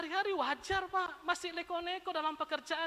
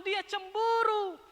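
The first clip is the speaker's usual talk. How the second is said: slow emphasis; 5 semitones higher, 6 dB louder, much slower than usual. Acted.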